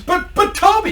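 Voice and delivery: very high, stammered mock protest; hammed-up high-pitched pleading; pleading employee. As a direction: squeak out a stuttering objection.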